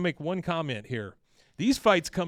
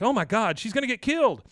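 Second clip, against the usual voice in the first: higher, louder alarmed cry; mock panic; 8 semitones higher, 6 dB louder than usual. Peggy fearing for Luann, higher mock-panicked cry. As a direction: squeal like you can't bear to look.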